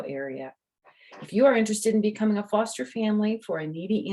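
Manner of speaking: bright storybook reading voice; reading to children. Acted. The author reads her book to the kids, bright storytelling. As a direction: read it out to little listeners. Reading book's back page.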